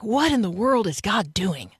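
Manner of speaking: in awe of all that God is doing; wondering, admiring question; appreciative. Shown as a demonstration. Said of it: "One is appreciative".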